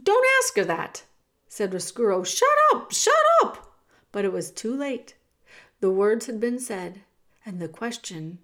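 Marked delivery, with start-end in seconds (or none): 0.0-1.0 high, loud frantic rat; panicked high-pitched outburst; alarmed shout. A narrator's reading. Rat panics, tries to stop question. 2.2-3.8 very high, loud shriek; panicked rat screeching for silence; frantic shout. A narrator's reading.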